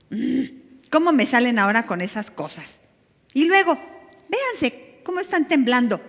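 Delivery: half-joking scolding of the disciples; mock scolding. Preacher imagining scolding the scared disciples, mock exasperated. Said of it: "capaz que les dice".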